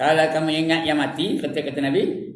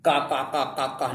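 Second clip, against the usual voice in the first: mock laughter. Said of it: "Ketawa je kerjanya".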